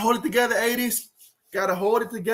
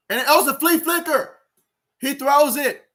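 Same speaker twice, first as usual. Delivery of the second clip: excited; 5 semitones higher, 5 dB louder than usual. Real, not acted. Flea flicker play unfolding live.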